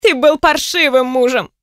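understated wail of reproach; loud groan. A narrator's reading. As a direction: groan it out at him, mildly voiced. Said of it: "громко простонала она".

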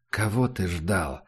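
low, quiet ghostly voice; cold otherworldly voice. Acted. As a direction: speak from beyond the grave, softly. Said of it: "повторил Мандела".

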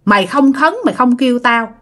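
retold reproach, mildly indignant; scolding. Spirit complains she was left uninvited to the feast, acted scolding. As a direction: press the complaint home as an offended spirit. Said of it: "Tự nhiên bà Út nói vậy".

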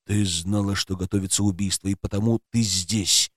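plain reading voice

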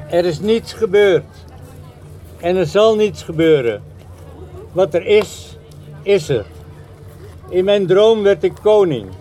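spoken lyric with dramatic pauses; poem recitation. Acted. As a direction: recite in spaced lines, letting the voice sink at the close. Recites another song lyric.

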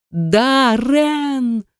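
high, desperate scream of Darren's name. A narrator's reading. Heroine screaming for her lost husband at full voice. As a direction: scream it with all your lungs. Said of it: "закричала во всю силу своих лёгких".

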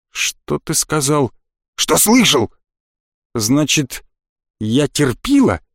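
a touch of icy threat; cold anger. A narrator's reading. Narrator furious, speaks low.

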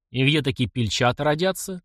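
ordinary delivery

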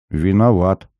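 usual speaking voice

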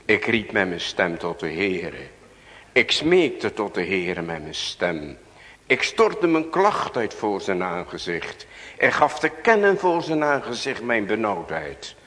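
crying out to God. Acted. David crying out in prayer. (David roept in nood, steeds luider)

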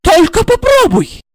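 a touch of a threatening hiss; mild hiss. Acted. Блондинка угрожает Игорю, слегка шипя. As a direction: warn him through the teeth. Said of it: "угрожающе прошипела".

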